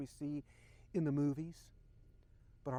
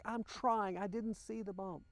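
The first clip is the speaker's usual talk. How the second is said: higher-pitched defensive protest; retold upset; 5 semitones higher than usual. Husband answering wife after hitting a bump, retold mild upset. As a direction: replay an exasperated outburst, restrained. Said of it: "I got so upset with her".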